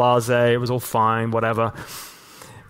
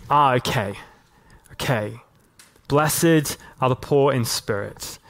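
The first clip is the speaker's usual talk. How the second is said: gentle voice of God; slower than usual. Retold or imitated. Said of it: "I felt God go".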